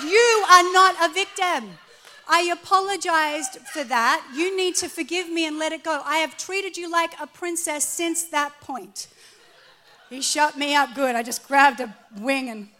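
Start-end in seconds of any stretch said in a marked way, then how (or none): 0.0-9.1 much louder and higher, pointing-finger scolding; husband's loud rebuke. Retold or imitated. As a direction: lay down the law to her. Husband scolds her loudly.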